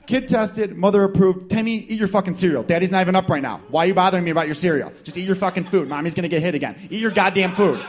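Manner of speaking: hammed-up irate parent rant; angry dad. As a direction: berate a kid over breakfast. Acted angry dad at breakfast table.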